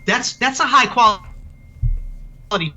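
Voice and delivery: choppy, glitchy robot voice from a bad connection; broken-up call audio. Real, not acted. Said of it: "everything you just said was all like a robot voice".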